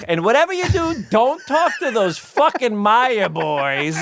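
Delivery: high, slow Bronx Jewish mom; Bronx Jewish accent. Retold or imitated. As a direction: do a thick Bronx Jewish mother. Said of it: "very thick Bronx Jewish accent".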